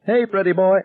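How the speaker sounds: high, sing-song jeering bully; mock him from above, gleeful; a high gloating schoolyard bully; taunting bully. A narrator's reading. Bully taunting boy on the ground.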